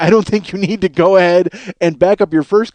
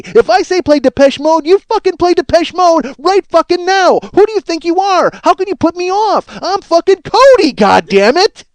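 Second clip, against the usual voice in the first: high, very loud hammed-up shriek; mock screaming tantrum; 9 semitones higher, 4 dB louder than usual. Caller screaming at the radio DJ, hammed-up. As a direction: explode at him in a full tantrum.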